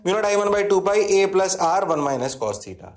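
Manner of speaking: slow chant of the formula; teacher reciting the formula again slowly; slow recited formula. Shown as a demonstration. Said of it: "अरे हाँ ना बोलना पड़ेगा".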